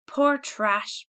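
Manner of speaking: high, loud scornful poor trash; angry scorn. Acted. Mother scorning the townsfolk, high loud contempt. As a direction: spit out her contempt. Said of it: "She was trembling with anger and excitement".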